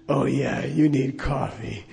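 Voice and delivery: slow, lightly voiced lama with a damaged voice box; Darth Vader. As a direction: lightly imitate the teacher, drawing it out. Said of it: "he talked like Darth Vader".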